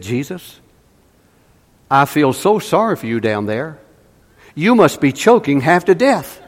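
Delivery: mock-pitying plea, rising toward the end; put-on pitiful voice. Evangelist leaning over a young smoker, mock pitiful. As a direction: lay on exaggerated pity for someone suffering. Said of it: "in the most pitiful voice he could manufacture".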